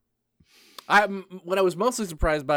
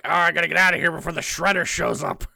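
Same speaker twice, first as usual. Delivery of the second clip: mock cartoon villain; 3 dB louder, faster than usual. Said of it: "it just looks very much like".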